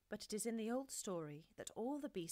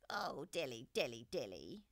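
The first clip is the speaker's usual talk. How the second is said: low, sighing cat; a long, lonely sigh; 5 semitones lower, 3 dB louder than usual. A narrator's reading. Hungry Simpkin sighing alone in the snow, low and sad. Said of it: "sighed Simpkin".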